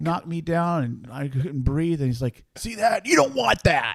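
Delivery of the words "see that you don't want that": mock stern, high-pitched shouted scolding. Retelling Dad knocking the speaker down with a hard throw, retelling a scream. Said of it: "Just sort of screaming at me".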